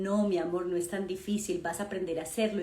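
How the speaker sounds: reassuring mother. Retold or imitated.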